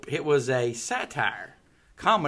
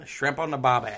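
put-on Australian twang; Australian accent. Shown as a demonstration. Repeating the catchphrase to co-host, put-on Australian accent. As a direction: echo it in a mock Australian accent. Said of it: "Do an Australian accent".

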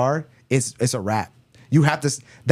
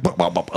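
mock stammered babble; stuttering nonsense noises, mimicked; speech impediment imitation. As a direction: sputter "bup" syllables in imitation. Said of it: "he had a speech impediment".

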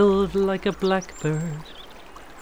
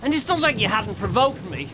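angry pleading; 5 semitones higher than usual. Acted. Quarrel after he hit Kate.

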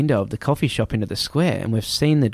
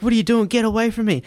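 high-pitched, flustered retold recoil; alarmed protest; 11 semitones higher, faster than usual. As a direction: act out fending someone off in alarm. Retold recoil from man grabbing feet.

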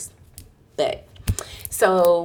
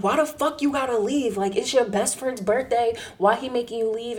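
mildly indignant, higher-pitched questioning; retold mad; 5 semitones higher than usual. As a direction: act out a friend's outraged disbelief. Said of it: "Ray got so mad".

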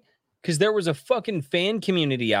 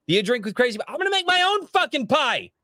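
worked-up rant; 8 semitones higher than usual. Retold or imitated. Imagined telling Eric off, rising exasperated rant. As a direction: pitch climbing high into an exasperated rant. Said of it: "Be like".

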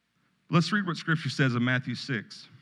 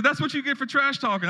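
little grandson voice; 12 semitones higher than usual. Retold or imitated. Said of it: "He said".

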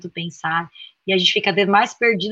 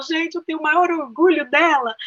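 higher-pitched, emphatic retold protest; emphatic pride; 6 semitones higher than usual. Mother reacting to her daughter's imagined complaint, emphatic pride. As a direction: protest it with raised pitch, as if recounting your reaction.

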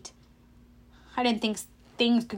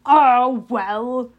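drawn-out, mock-consoling sigh of words; lightly gloating condolence; false sympathy; 7 dB louder than usual. A narrator's reading. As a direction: pretend to commiserate. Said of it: "his voice dripping with false sympathy".

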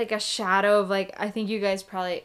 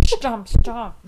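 laughing mock stomp; 2 semitones higher, 8 dB louder than usual. Mimicking horse stomping, laughing.

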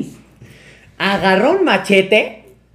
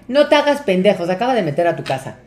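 mamá encabronada, imitada; faster than usual. Retold or imitated. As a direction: cut through the excuse angrily. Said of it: "mi mamá estaba bien encabronada". (mamá enojada regañando, imitada)

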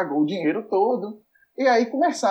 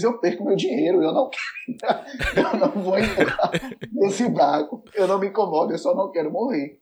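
laughing fear. Retold or imitated.

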